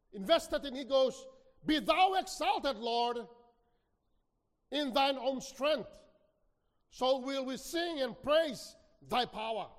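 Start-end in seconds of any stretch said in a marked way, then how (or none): 1.6-9.7 rejoicing tone. Acted. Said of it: "That's the tone of Psalm twenty-one".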